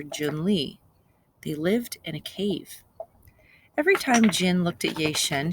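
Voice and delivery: put-on lively storybook reading for children; story narration. A narrator's reading. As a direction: tell the fairy tale to the class. Teacher reads fairy tale aloud.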